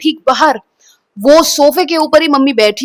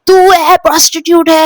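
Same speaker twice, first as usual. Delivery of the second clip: higher, louder accusing jab; mock angry accusation; 4 semitones higher, 5 dB louder than usual. Mother pointing a finger at her daughter, loud accusing shout. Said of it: "मुझे ऐसे उंगली दिखा के बात करनी".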